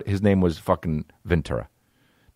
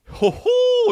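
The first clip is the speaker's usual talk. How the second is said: high, hooting mock laugh; imitated buddy laugh. Showing how the old roommate laughed, high mock hoot. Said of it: "He would laugh like that".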